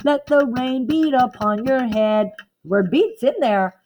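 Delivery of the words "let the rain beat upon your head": poem reading. Shown as a demonstration. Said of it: "I don't really hear a rhythm here".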